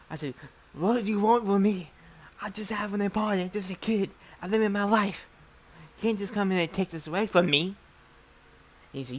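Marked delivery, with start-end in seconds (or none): 0.7-7.7 higher pleading voice, a touch scared; mock-frightened plea from a kid; retold pleading. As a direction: beg him to leave you alone. Pleading with the killer.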